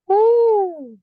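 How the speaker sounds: loud, high whoop of self-cheer; a big whoop to hype herself up; excited woo. Real, not acted. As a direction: cheer yourself on, full voice. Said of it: "That felt like a good lie".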